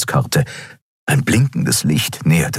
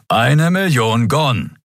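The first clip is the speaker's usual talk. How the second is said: slow, dry repeat of the price; growled demand; 7 semitones higher, slower than usual. A narrator's reading. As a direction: growl out the sum, slowly. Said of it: "knurrte Keru". (langsames, trockenes Knurren)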